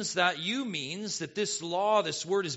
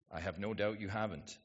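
ordinary delivery

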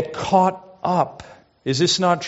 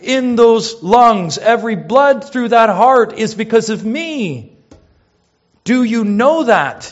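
impassioned preaching; 6 semitones higher, 6 dB louder than usual. Acted. Preacher at full force.

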